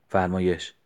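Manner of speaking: a touch of curt, irritated "فرمایش"; mild mock anger, short and sharp; angry reply. Narrator answering the rival, a touch of irritation. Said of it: "با عصبانیت گفتم".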